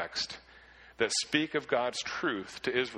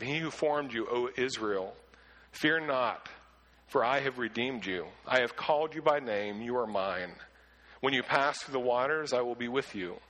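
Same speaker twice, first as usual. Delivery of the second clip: scripture reading. Shown as a demonstration. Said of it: "Now I want to read this again".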